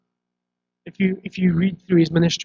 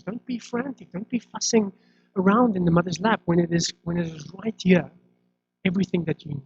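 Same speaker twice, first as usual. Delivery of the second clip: gentle reassurance; 4 semitones higher than usual. Retold or imitated. Jesus reassuring anxious followers.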